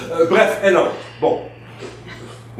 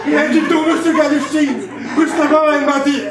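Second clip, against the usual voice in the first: quavering appeasement; 5 semitones higher than usual. Acted. Frightened official denies all.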